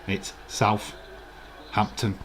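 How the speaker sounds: slow, breathy South-hampton, both halves sounded; split into two words. Shown as a demonstration. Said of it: "like there's a Northampton".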